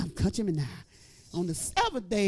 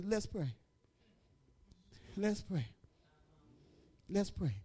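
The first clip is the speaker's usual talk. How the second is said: quiet prayer call; 4 semitones lower, 10 dB quieter than usual. Retold or imitated. Calm prayer call after the news.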